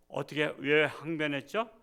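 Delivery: usual speaking voice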